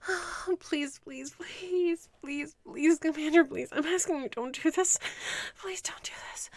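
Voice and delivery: desperate pleading. Acted. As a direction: plead in rising panic. Escalating begging.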